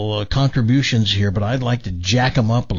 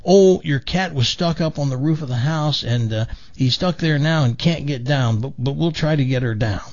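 upset sister explaining; 3 semitones higher than usual. Acted. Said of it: "She says".

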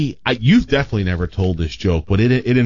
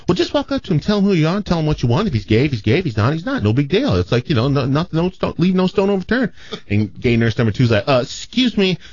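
a gossipy nurse dishing advice, pitched way up; campy Southern gay nurse; 5 semitones higher than usual. Acted. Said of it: "my natural gay imitation just comes across as Southern".

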